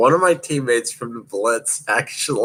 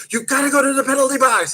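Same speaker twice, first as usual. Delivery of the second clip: official's voice; faster than usual. Retold or imitated. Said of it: "They go".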